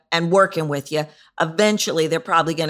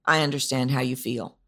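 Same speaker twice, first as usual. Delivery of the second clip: even, unshaped monotone delivery; 4 semitones lower than usual. Shown as a demonstration. Service rep showing the monotone version, indifferent. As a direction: drone it like you don't care. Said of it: "maybe you say it monotone".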